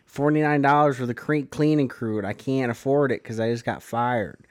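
nasal Wisconsin imitation, lightly put on; nasally Wisconsin accent. Podcaster quoting the show's Dahmer, nasally Wisconsin accent. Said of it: "kind of a nasally".

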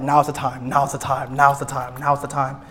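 retold inner urging; urgent self-talk. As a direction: chant it under your breath to yourself. Retold inner urging before confession.

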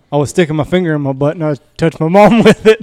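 words breaking into a laugh; can't hold the laugh at the end; retelling the son's confession, laughing. Retold or imitated.

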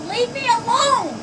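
slow, sharp, fed up; exasperated. Real, not acted. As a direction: drag it out, fed up. Neighbour quarrel, pleading.

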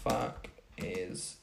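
a lightly imitated Vine line, trailing off; mock Vine quote. Quoting the Vine again for her friend, lightly imitated. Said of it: "Do you know that Vine?".

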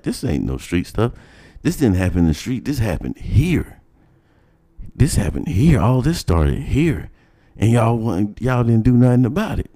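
indignant protest. Retold or imitated.

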